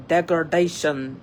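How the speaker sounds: attempted Russian accent on one word; clumsy imitation of a Russian accent. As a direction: try a Russian repairman's accent, not very well. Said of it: "with a Russian accent".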